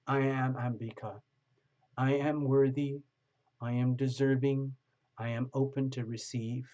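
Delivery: calm, measured self-affirmation. Shown as a demonstration. Tarot reader models a prayer for the viewer, calm and steady. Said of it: "this is what I would like you to say for yourself".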